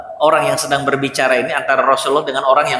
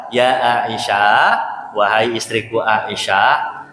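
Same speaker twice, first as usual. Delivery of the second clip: gentle reply; much slower than usual. Retold or imitated. The Prophet calmly answering his wife Aisyah, slow and tender.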